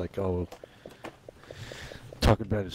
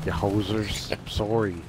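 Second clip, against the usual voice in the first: mock Canadian accent. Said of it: "Canadian accent".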